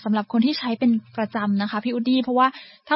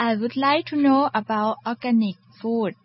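slow careful English; much slower than usual. Shown as a demonstration. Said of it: "น้องแก้วอยากทราบเกี่ยวกับเรื่องอะไรคะ".

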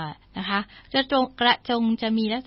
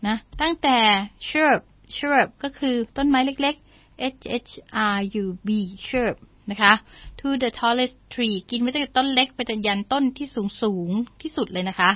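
ordinary delivery

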